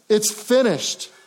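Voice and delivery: high, slow triumphant cry of victory; victorious cry. Shown as a demonstration. Preacher voicing Jesus' dying cry as a victory shout. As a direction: proclaim it like a winner's shout. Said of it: "this vocal cry".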